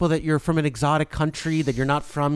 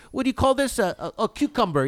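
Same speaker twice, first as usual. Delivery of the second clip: a light mock Spanish accent, groping for a word; 5 semitones higher than usual. Podcaster mimics Hilaria pretending to forget cucumber, in a mock Spanish accent. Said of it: "She pretends like".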